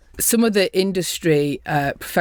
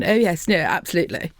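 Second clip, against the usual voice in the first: posh BBC English. Retold or imitated. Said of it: "If you go in all toffee and".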